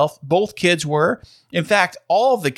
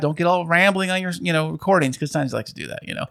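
laughing; faster than usual. Real, not acted. Teasing Dad, laughing.

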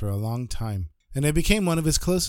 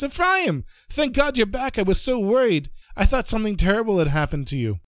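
higher, eager relieved outpouring; relieved rabbi; 5 semitones higher than usual. Acted. Rabbi relieved to see Ephraim back, eager and higher. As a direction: rush out relief at finding a lost friend.

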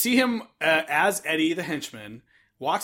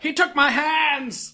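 mock anguish; 8 semitones higher, slower than usual. Imitating character's lament.

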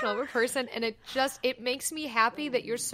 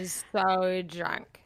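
mock drunk; much slower than usual. Imitating slowed half-speed drunk speech.

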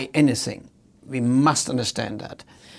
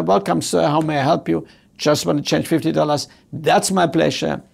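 friendly teller. Retold or imitated. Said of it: "She could have said".

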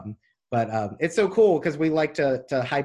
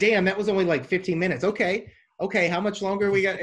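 eager disbelief; 6 semitones higher than usual. Retold or imitated. Acting out eager listeners' reaction.

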